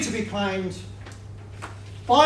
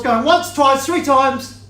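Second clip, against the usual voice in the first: louder, slowing on three times; auctioneer call; 2 semitones higher, 5 dB louder, slower than usual. Real, not acted. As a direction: draw out the final call. Auctioneer closing the bidding.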